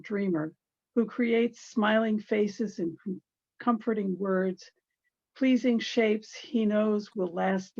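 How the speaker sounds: measured recital, each phrase lifted then falling; poem reading. Acted. Reading a late friend's poem in his memory, measured poetry recital.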